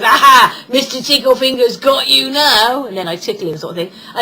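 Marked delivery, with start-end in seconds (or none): 0.0-2.9 playful villain. Pretend.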